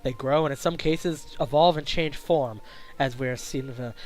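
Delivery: low, soft professor voice; hushed, measured introduction as a professor; kindly professor. Acted. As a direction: welcome the newcomer quietly, in a low register.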